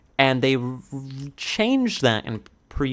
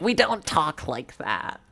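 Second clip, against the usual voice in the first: higher-pitched imitation of an indignant passer-by; retold lady's retort; 7 semitones higher than usual. Lady turns around to correct the fake New Yorker, mock indignant retort. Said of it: "turns around and is like".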